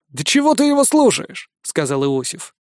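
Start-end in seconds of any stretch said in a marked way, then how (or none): 0.1-1.5 scoffing. Acted. Iosif scoffs.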